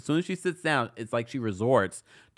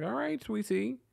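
mock patronizing; 11 semitones higher, 5 dB quieter than usual. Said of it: "I was like".

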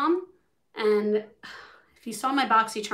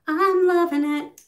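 excited; 6 semitones higher, 8 dB louder than usual. Real, not acted. Repeats loving it, louder.

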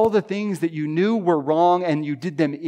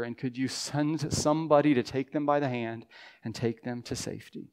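fervent prayer. Pretend. Voices an intercessory prayer.

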